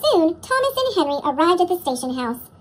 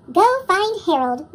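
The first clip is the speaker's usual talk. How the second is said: calling out; 4 dB louder than usual. Acted. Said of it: "Gordon called to Henry".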